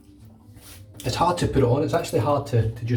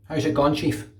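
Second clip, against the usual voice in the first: Glasgow greeting pushed through the nose; nasal Glaswegian; 3 semitones higher than usual. Shown as a demonstration. Repeating the lesson for viewers, nasal Glaswegian. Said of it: "really talk through your nose".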